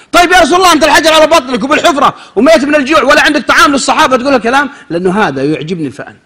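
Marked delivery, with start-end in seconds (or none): 0.1-4.7 higher and louder disbelief; astonished question. Retold or imitated. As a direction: raise the voice in wonder at the promise. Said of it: "companion questions the Prophet". (صحابي يتعجب من بشارة النبي بصوت مرتفع)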